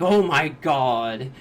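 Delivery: loud, drawn-out cry of alarm; mock freak-out. Joseph retold freaking out over invisible baby's prints, mock-panicked. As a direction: stretch it out loudly, playing at panic. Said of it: "like, freaking out".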